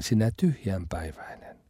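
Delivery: hushed whisper of the word tyhjänpäiväinen; quiet, grave whisper; whispered insult. Shown as a demonstration. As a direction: let the insult fall to a whisper. Repeats the insult for emphasis.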